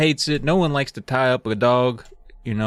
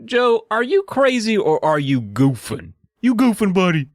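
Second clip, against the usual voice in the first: teasing friends; 8 semitones higher than usual. Retold or imitated. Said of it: "they're like".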